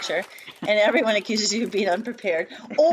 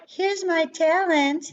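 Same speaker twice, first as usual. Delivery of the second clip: high, slow singsong presentation; hammed-up talent-show reveal; mock showing off; 8 semitones higher, much slower than usual. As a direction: announce it in a high, drawn-out mock-proud voice.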